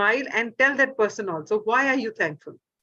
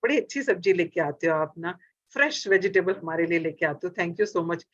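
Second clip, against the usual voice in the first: lower, fond thanks to the seller; said lovingly; 4 semitones lower, faster than usual. Retold or imitated. Customer thanking the vegetable seller, lovingly. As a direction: praise him like he truly earned it. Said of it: "बड़े प्यार से बोले".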